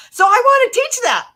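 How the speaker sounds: high and loud with conviction; fervent, soaring resolve; passionate declaration. Real, not acted. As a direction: proclaim it like a vow.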